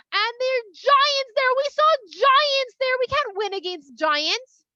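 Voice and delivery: high, loud, insistent panic report; alarmed spies. Acted. Spies warning the people against entering Israel, alarmed. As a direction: draw out the key words in hammed-up alarm.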